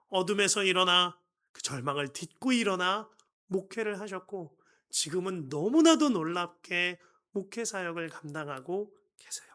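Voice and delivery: ordinary talk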